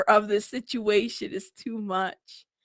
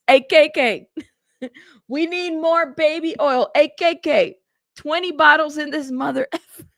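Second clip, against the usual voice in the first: a light, laughing take on a smooth boss's request; louder, higher mock voicemail, cracking up; a rapper's voice; 5 semitones higher, 3 dB louder than usual. Vlogger mimicking a rapper's voicemail about baby oil, laughing. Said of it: "I could almost hear a rapper's voice in this".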